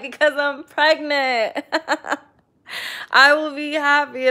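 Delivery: real giddy laughter mixed with tears; laughing through tears. Real, not acted. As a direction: laugh and half-cry as you say it. Laughing, tearful about pregnancy hopes.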